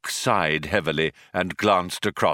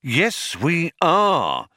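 higher-pitched, firm contradiction; insistent; 8 semitones higher, much slower than usual. A narrator's reading. Older philosopher contradicts his colleague, mildly insistent. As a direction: insist against your colleague. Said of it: "insisted Magic Thighs".

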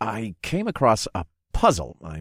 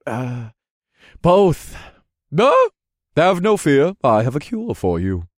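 high, loud salesman pitch; eager merchant voice; 4 semitones higher, 4 dB louder, slower than usual. Acted. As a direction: sell it like a huckster. Vendor character voice.

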